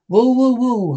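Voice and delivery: loud jeering woo; whooping. Acted. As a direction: whoop like a rowdy fan. Heckling at baseball.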